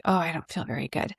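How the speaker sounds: soft, sinking low; weak murmur before fainting. Retold or imitated. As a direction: let it drain out of you. About to faint.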